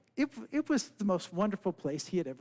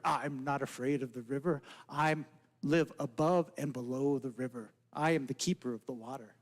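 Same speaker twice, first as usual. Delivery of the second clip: frog voice; 7 semitones lower than usual. Acted.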